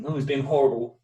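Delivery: a hint of whiny schoolboy; year seven kid. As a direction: lightly put on a childish complaint. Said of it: "as you used to speak in, like, year seven".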